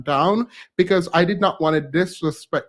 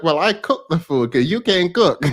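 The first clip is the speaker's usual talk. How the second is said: sassy comeback. Retold or imitated. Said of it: "I did not say it like that".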